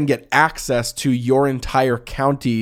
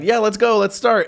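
mock eager; 9 semitones higher than usual. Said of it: "that, like, stop start of".

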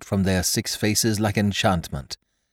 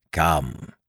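struggling to speak; 4 semitones lower than usual. Acted. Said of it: "struggling with his ashen lips to get the word out".

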